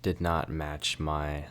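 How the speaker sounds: muffled voice inside a helmet; talking inside helmet. Real, not acted. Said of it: "putting my helmet on".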